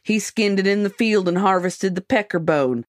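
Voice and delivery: lightly put-on rural Montana accent. Magazine excerpt read to friends in a mock Montana accent. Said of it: "I'm gonna do it in an accent".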